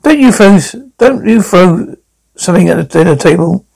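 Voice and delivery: scolding. Acted. Mother telling daughter off at dinner, stern scolding. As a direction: lay down the law.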